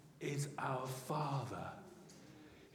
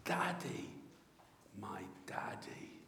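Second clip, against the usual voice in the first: put-on hushed, falling echo of a child's call; tender, fading murmur; ringtone cry, softened; 6 semitones lower, 8 dB quieter than usual. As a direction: let it sink low to a whisper. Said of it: "when my ringtone goes".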